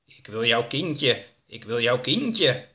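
slow, drawn-out creepy voice; slow, lightly voiced monster; creepy creature. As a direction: stretch it out like an eerie being. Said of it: "met een griezelige stem".

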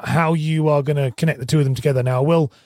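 ordinary delivery

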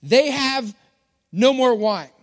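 a touch of a public announcement; lightly acted announcer, pausing mid-sentence. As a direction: announce it in two measured pieces. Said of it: "makes this announcement".

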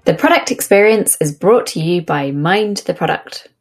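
lightly polished presenter's read; podcast sponsor read. Acted. Host introduces the podcast's sponsor to listeners, announcer read. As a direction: deliver it as a show intro.

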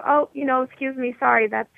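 mildly deferential, courteous objection; very polite. Acted. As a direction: act out politely sending an order back. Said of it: "I will very politely say".

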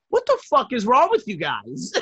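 exasperated uncle imitated through laughter; retold outburst, breaking into a laugh; laughing as you mimic the freak-out; mock freaking out. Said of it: "he started freaking out".

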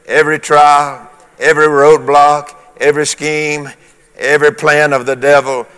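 building preacher's list, pitch held up; ringing declaration for the congregation to echo; leading congregational declaration. Real, not acted. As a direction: lead the room item by item. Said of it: "You can say that".

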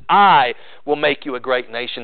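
"I" hit hard and held, then ease off; stress on I. Acted. Preacher voicing God's promise to Jacob, stress on I. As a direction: lean long and hard on the opening "I". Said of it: "The emphasis there is on God himself".

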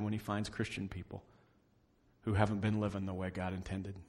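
soft, hushed preaching; quiet reflective preaching; soft sermon close. Acted. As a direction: bring it home gently. Closing softly.

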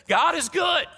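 high, loud shouted call; preacher's call. Retold or imitated. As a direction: belt it out like a pastor rousing the room. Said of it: "the pastor will come out and he'll say".

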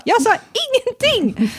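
put-on high whiny kid voice; high child begging to see Maja; imitating child whining. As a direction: whine it like a four-year-old.

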